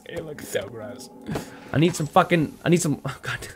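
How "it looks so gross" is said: slow, hushed revulsion; drawn-out voiceless disgust; disgusted whisper. Real, not acted. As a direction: whisper it slowly, grossed out. Disgusted, repeats it under breath.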